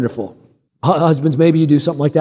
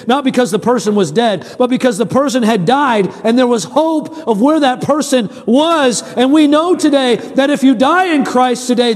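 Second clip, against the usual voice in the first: higher-pitched, emphatic sermon delivery; preaching; 6 semitones higher than usual. Real, not acted. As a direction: preach hope to the congregation. Preaches to the congregation.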